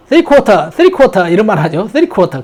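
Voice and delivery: "Three quarter" with R dropped from quarter; British "Three quarter", hard T; British pronunciation. Shown as a demonstration. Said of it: "바로 영국식 발음".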